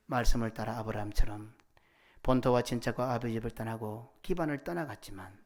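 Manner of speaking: earnest, measured praying voice, evenly pitched; congregational prayer. Real, not acted. Pastor praying to God after the sermon, solemn and earnest. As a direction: pray aloud in steady solemn phrases.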